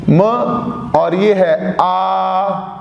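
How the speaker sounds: म and आ said slowly, the vowel आ drawn out; sounding out m and a. Shown as a demonstration. Teacher sounding out म, then a slow drawn आ. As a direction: split मा into म and a long आ. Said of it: "तो अब इसको कैसे बोलना है".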